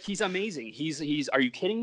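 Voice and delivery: high, eager, gushing praise. Retold or imitated. Gushing about his best friend.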